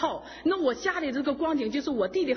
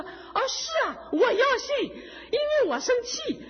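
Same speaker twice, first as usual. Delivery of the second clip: high, slow, half-laughing mother's voice; mother's eager reply; 10 semitones higher, slower than usual. Retold or imitated. Imitating her mother laughing, high and slow.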